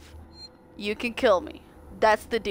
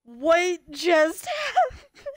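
laughing; 7 semitones higher, much slower than usual. Real, not acted. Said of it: "repeated with a laugh".

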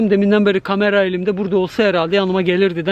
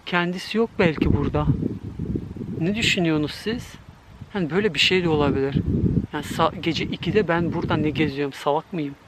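hushed nervous talk; 3 semitones lower, 5 dB quieter than usual. Real, not acted. Alone at night in empty park.

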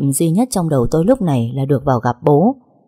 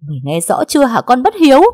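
much higher, louder berating; scolding; 8 semitones higher, 4 dB louder than usual. A narrator's reading. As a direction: rail at the ungrateful daughter. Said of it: "tiếng mắng nhiếc".

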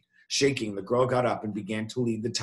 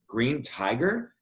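slow, mildly beastly question; a touch of growling disbelief; growled question; 3 semitones higher, slower than usual. Acted. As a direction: draw out the doubt as a beast. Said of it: "he growled".

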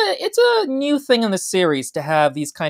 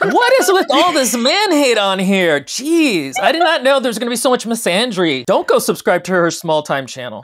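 higher, playful mock-offended whining; mock outrage; 5 semitones higher than usual. Host pretends offense at the cohost's man-hate. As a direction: fake indignation, teasing. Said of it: "mock outrage at cohost".

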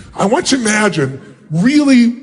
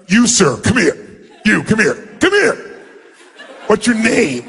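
bored, dismissive demo. Shown as a demonstration. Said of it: "shake their hand like".

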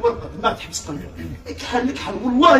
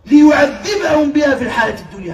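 raised Quran recitation; 4 semitones higher, 4 dB louder than usual. Acted. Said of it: "قال الله تعالى".

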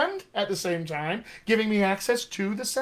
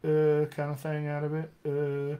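West Texas accent; 4 dB quieter than usual. Shown as a demonstration. Coach shows what the accent gives him, West Texas hesitation. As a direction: slide into West Texas thinking sounds. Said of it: "if I was doing my West Texas accent".

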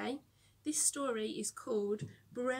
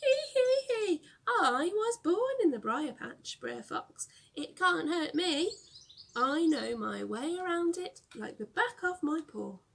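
higher, louder sing-song gloat; gleeful taunting; 6 semitones higher, 5 dB louder than usual. Acted. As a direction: crow over the fox from safety. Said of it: "sang Brer Rabbit".

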